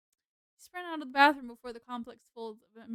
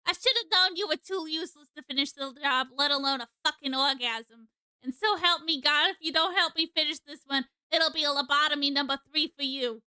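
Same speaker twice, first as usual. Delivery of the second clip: brash lady voice. Acted. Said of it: "That's just how I think this lady sounds".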